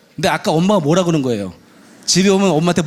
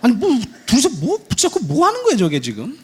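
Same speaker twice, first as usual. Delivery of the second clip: high, stammering mock disbelief; baffled father; 8 semitones higher than usual. Father watching them both cry, bewildered disbelief. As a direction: sputter in bewilderment, pitch jumping up. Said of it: "밖에서 아빠가 보고 있으면".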